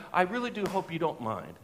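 lightly imitated German accent; courteous German-accented visitor. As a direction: politely insist with a slight German accent. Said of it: "it was a German accent".

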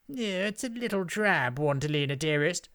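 high, disdainful witch, falling away; sighing witch. A narrator's reading. Second witch appraises the inn, lofty sighing disdain. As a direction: sigh it out with lofty disappointment. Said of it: "pronounced the second witch with a sigh".

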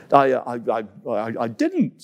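halting, caught-out stammer; denying a misdeed, flustered. Acted. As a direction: trip over the words in guilt. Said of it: "stammered Coco".

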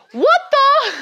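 high and loud, laughing at her own bad British accent; squeaky mock British, cracking up; failed British accent. Botched British accent while laughing at herself. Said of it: "I can't do a British accent".

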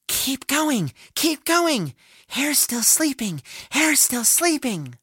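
high, light little bird voices chanting; cheering hummingbirds. A narrator's reading. Hummingbirds overhead urge Tortoise on, high chirpy cheering. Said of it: "cheering and exclaiming".

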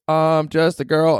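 slow, high take on the singer. Retold or imitated. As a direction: draw it out high like the pop star. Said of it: "So she goes".

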